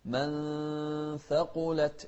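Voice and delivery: من ثقلت with nasal, hidden nun; concealed nun. Shown as a demonstration. Teacher shows ikhfa in من ثقلت. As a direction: hide the nun before the tha in من ثقلت. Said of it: "إخفاء".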